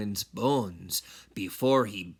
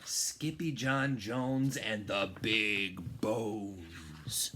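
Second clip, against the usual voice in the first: slow whispered title; 3 semitones lower, 6 dB quieter, much slower than usual. Shown as a demonstration. Reading the book title to first graders in a slow whisper. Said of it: "title whispered slowly".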